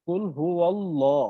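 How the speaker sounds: কুল হু আল্লাহ with heavy, full lam; কুল হু আল্লাহ with a full lam, shown as right; correct reading. Shown as a demonstration. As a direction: read কুল হু আল্লাহ with a thick dark L. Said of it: "আমরা বলি কি".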